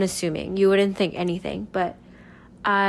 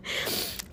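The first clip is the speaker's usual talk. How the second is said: soft breathy laugh; 11 dB quieter than usual. Real, not acted. Laughs at own word choice.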